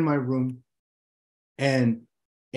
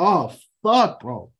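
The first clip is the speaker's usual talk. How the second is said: mock panic in turbulence; 5 semitones higher than usual. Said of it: "and you're like".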